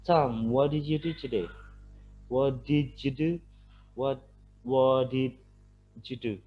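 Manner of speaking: slow careful repeat of the question; teacher modelling slowly; slow linked demo. Shown as a demonstration. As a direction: say it slowly to show the linking. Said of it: "Ini juga menunjukkan adanya linking".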